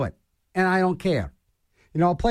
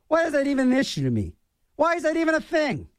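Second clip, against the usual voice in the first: exasperated; 8 semitones higher, faster than usual. Real, not acted. Exasperated self-questioning.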